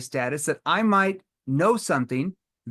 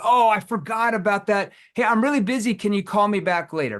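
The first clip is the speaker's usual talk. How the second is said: busy prospect brush-off; 5 semitones higher than usual. Retold or imitated. Salesman imitating a prospect putting him off, busy and dismissive. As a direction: brush the caller off as too busy.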